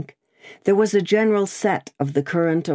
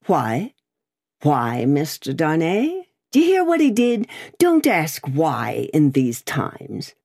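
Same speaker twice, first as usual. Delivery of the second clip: bullying barrister. Acted. Stryver bullies Darnay.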